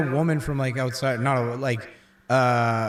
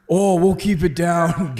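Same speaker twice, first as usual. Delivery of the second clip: apologetic partier; 4 semitones higher, 4 dB louder, slower than usual. Retold or imitated.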